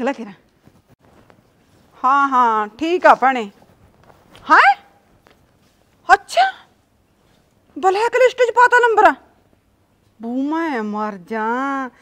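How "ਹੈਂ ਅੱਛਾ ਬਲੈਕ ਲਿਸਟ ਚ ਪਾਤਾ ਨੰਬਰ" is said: surprised. Acted. Gossip on phone, hears news.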